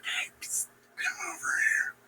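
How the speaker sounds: hushed, secretive beckoning; furtive whisper. Acted. Murderer summoning Macbeth at the feast, furtive stage whisper. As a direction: whisper it so guests don't hear.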